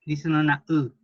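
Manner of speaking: "U" with lips spread as for i; saying ü. Shown as a demonstration. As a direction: shape an i but voice "U". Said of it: "y en vez de decir una I".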